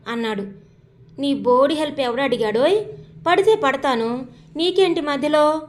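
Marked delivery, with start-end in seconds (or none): 1.2-5.6 picking a fight. Acted. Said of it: "అని గొడవకి దిగుతుంది".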